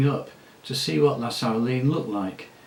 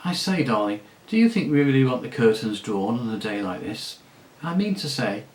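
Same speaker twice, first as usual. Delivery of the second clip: spoiled lady. Acted. La Saraline, spoiled noblewoman.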